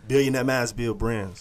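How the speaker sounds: "Billionaire Mass Bill Brands" drawn out slowly, word by word; slow, deliberate name announcement; slowly, clearly. Shown as a demonstration. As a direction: say it slowly so people can hear each word. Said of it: "Say that slowly for the people can hear you".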